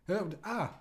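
high-pitched mocking filler noises; mock rival podcaster. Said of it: "here's my impression of".

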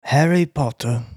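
badly faked wizard-film character; Harry Potter character.

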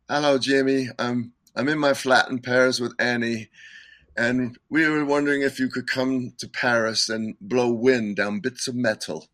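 put-on half-hearted English accent for a friend's phone message. Musician imitating another musician's phone message, light English accent. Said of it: "I can't do his accent real good".

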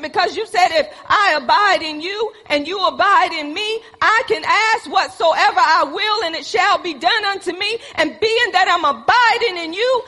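earnest, insistent pleading with God; fervent prayer. Acted. Believer telling God they depend on the vine, fervent prayer.

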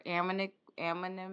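failed tries at "amicably"; stumbling over a word. Real, not acted. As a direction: trip on the middle of the word and break off. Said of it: "I can't say the word".

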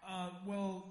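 put-on Australian accent, slow and low. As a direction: drawl it in a fake Australian accent. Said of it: "trying to fake an Australian accent".

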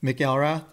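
McElrath botched as mick-ELL-rath; butchered pronunciation. Shown as a demonstration. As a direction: put the stress on "ELL" in McElrath. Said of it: "What's the worst butcher you've heard?".

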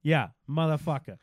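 swearing in a Boston accent. Shown as a demonstration. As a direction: drop the r's like a Bostonian. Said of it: "most satisfying accent to swear in".

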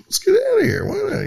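mock panicked exit. Mocking the resigning politicians fleeing, high crying shout. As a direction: squeal like someone bolting.

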